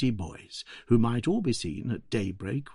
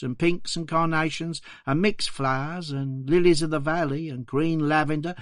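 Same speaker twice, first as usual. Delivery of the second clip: a hint of a poor Victorian flower girl, higher; young London flower seller, lightly voiced, higher; 4 semitones higher than usual. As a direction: play the flower girl answering politely, higher. Flower girl's words voiced.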